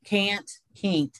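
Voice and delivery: "Can't, can't" with the vowel stretched toward a long E, mountain style. Shown as a demonstration. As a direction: say "Can't, can't" with a drawn-out Appalachian vowel. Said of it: "we would do a long E".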